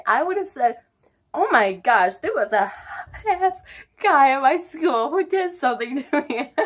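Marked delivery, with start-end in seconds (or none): 1.3-6.5 put-on high, loud girlish gossip; mock gushing. Telling dad about a boy at school, mock-excited gushing. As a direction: gush excitedly, hammed-up. Imagined gushing instead of crying.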